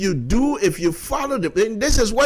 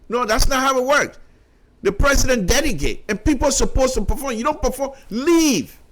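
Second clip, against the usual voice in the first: getting upset; 4 semitones higher than usual. Real, not acted. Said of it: "I don't know why I'm getting upset".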